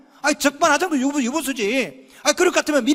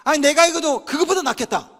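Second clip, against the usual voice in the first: mock boastful; 4 semitones higher than usual. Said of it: "이렇게 하시라고".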